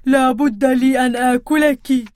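a hint of a menacing troll; terrifying troll voice. Troll threatening the little goat, lightly menacing. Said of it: "بصوت مرعب".

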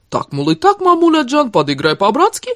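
spiteful mock Armenian accent, pitch leaping up midway; exaggerated Armenian accent. A narrator's reading. Woman mimicking her lover talking to his mother, spiteful mock Armenian accent. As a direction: lay on a mocking Armenian accent. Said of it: "со злостью изобразила нарочитый акцент".

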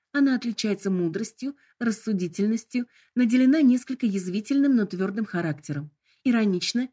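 sugary, high assistant tone; sickly sweet voice. Acted. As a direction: sell the options with cloying charm. Hologram describes the mode.

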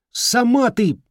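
angry retort. Acted. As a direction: throw it back at her.

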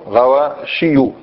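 غواشي drawn out slowly, ending with a light u; slow model word. Shown as a demonstration. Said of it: "مش غواشيون". (نطق ممدود لكلمة غواشي)

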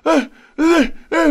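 high sharp calls of ê; high repeated calling; imitated calling. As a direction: mimic the sleeper crying out. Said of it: "cứ la hoài".

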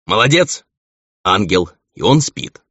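high teasing mock praise. Gal mocks the thief.

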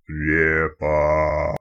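Репа drawn out low and booming like a spirit; thunderous otherworldly voice. Acted. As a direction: call Репа slowly in a low ghostly boom. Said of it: "громовым потусторонним голосом".

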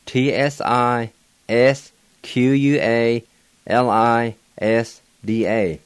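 slow letter-by-letter spelling; spelled out letter by letter. Shown as a demonstration. Teacher spelling out a bird name for learners, slow and deliberate. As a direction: spell each Cherokee letter slowly. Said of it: "and it's spelled".

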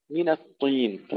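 الطين with a thick emphatic T; heavy ta with kasra. Shown as a demonstration. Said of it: "انتبهوا إلى تفخيم الطاء المكسورة". (تفخيم الطاء المكسورة)

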